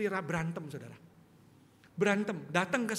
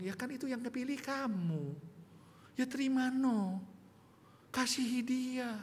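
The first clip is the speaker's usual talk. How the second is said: patient Jesus; 6 semitones higher, slower than usual. Retold or imitated. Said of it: "Tuhan ngomong".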